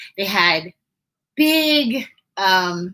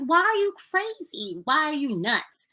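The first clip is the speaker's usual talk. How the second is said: put-on incredulous kid; 7 semitones higher than usual. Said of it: "I was like".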